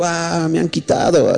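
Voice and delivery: slow, drawn-out imitation of crying; mock tearful wail. Brother imitating his robbed sister coming home, mock tearful. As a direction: imitate someone wailing through tears. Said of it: "Mi hermana llegó llorando y dijo".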